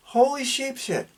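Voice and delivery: slurred speech; words slurring together. Real, not acted. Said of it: "I'm slurring over my words".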